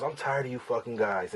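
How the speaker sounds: mild mock of a lawyer who is sick of clients; fed-up lawyer. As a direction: imitate the irritated lawyer lightly. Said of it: "he's talking just like this to me".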